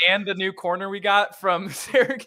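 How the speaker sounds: talking through loud laughter; laughing. Real, not acted. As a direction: tease it out while cracking up. Teasing host breaks up laughing.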